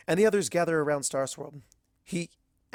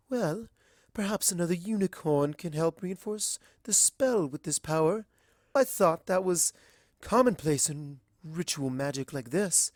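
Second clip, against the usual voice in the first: higher, elegant pony lady; refined lady voice; 3 semitones higher than usual. Acted. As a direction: speak like a genteel fashionista. Rarity's voice.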